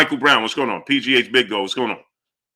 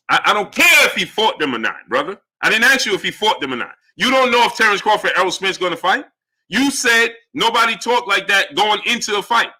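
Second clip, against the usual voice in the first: heated, insistent comeback; irritated rebuttal. Real, not acted. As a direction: argue back at a viewer, exasperated. Heated argument with a viewer.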